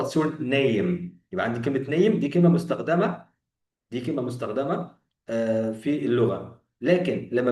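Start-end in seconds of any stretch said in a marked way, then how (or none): 0.0-1.2 slow, careful model sentence; correct version. Shown as a demonstration. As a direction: spell it out slowly for the learner. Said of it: "هقول له".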